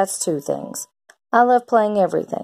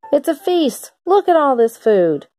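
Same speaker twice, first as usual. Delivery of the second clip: put-on excited kid; 8 semitones higher, 3 dB louder than usual. Kid thrilled by leftover food.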